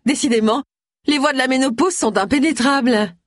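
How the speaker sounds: high-pitched mock sympathy through a smile; falsely sweet. A narrator's reading. Busybody playing to shoppers about her rival, sweetly catty. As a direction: sigh loftily over her, pitched high. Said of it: "adressa un sourire radieux".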